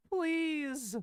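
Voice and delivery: high, drawn-out mock plea; pleading. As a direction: stretch it out as an imitated beg. Echoing the dubbed character's plea.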